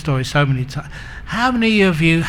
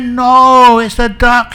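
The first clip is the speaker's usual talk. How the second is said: high, loud mock shout; heated contradiction; 8 semitones higher, 8 dB louder, slower than usual. Spouse contradicts spouse in a silly quarrel, shouting. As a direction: shout the other one down in a squabble.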